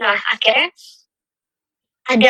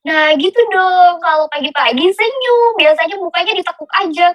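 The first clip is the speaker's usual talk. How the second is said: lightly voiced supervisor; 4 semitones higher than usual. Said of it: "supervisor saya bilang kayak".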